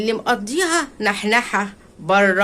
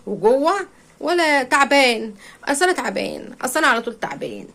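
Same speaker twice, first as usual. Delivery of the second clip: mock whiny husband; 4 semitones higher than usual. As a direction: whine like a lazy husband at home. Mocking husband's whining at home. (تقليد زوج بيتدلع وبيشتكي)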